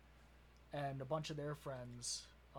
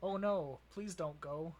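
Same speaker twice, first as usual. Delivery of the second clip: lazy Wisconsin accent long O; Wisconsin O sounds; 2 semitones higher, 6 dB louder, slower than usual. Shown as a demonstration. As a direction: say it with Wisconsin O's. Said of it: "Give me a phrase with a lot of O's to say".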